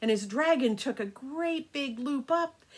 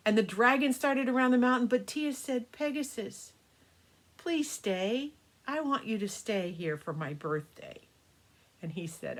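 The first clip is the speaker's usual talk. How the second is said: put-on storytelling to children. A narrator's reading. Grandma telling the grandkids a birthday story, gentle storytelling. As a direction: spin a bedtime tale for the grandkids.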